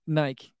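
slow, deliberate "Nike" rhyming with bike; "Nike" with no final ee; one-syllable Nike. Shown as a demonstration. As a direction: say "Nike" as "nyke". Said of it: "Nike is wrong".

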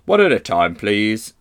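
loud, ponderous official order; policeman. A narrator's reading. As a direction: hold back the complainers with authority. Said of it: "said the policeman".

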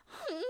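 high little imitated hmm; short, high-pitched reaction noise; imitated hum. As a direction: mimic a friend's squeal-like hum. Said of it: "You made a sound like".

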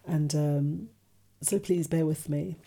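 talking through a sore throat; strained, sore throat. Real, not acted. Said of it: "I have a very sore throat".

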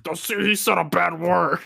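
high, loud whiny tattletale; sing-song snitching voice; mocking commenter. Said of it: "be like".

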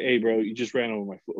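calm, matter-of-fact heads-up; understated, casual and even. Retold or imitated. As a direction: retell it with no alarm at all. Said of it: "Like, calm as could be".

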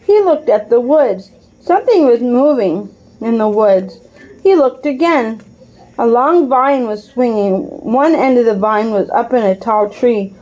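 put-on steady read-aloud voice for a child; calm parent reading a mystery book aloud; story narration. A narrator's reading. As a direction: read the chapter like a bedtime story.

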